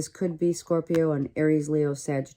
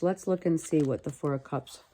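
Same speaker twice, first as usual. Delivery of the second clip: ordinary talk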